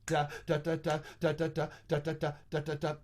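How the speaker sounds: scat on da with loud rhythmic breaths; exaggerated in-time breathing. Shown as a demonstration. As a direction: breathe loudly to make the point. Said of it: "I'm breathing kinda loudly to make my point".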